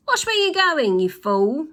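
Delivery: high, loud yell. Acted. Wife yells at driving husband, high and loud. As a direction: yell at him. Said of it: "yelled Missus Glutton".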